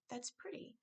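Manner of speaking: soft and a little shy; quiet. A narrator's reading. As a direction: say it softly, half to herself. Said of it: "quietly adding".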